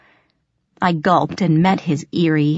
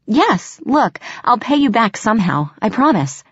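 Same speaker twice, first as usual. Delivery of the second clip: eager pleading; 5 semitones higher than usual. Acted. Desperate girl pleading.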